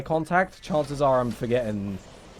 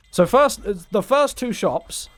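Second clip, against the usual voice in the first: much higher, louder burst; exclaiming; 7 semitones higher, 4 dB louder than usual. Real, not acted. Sudden outburst.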